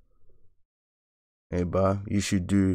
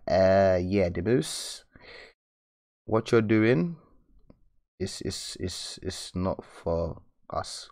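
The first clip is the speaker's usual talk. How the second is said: slow, puzzled mock viewer dragging it out; drawn-out, fading puzzled mumble; confused viewer; much slower than usual. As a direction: play a baffled follower lost in the steps. Viewers confused by his method.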